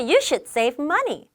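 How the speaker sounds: You should save money spoken very slowly, word by word; slow teacher read-aloud; slow model sentence. Shown as a demonstration. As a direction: read it slowly for learners to copy. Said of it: "여기 보면".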